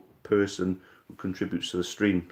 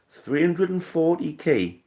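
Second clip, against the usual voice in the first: much higher and slow, disbelieving echo; stunned at the figure; incredulous; 8 semitones higher, slower than usual. Real, not acted. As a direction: repeat the number as if you can't believe it.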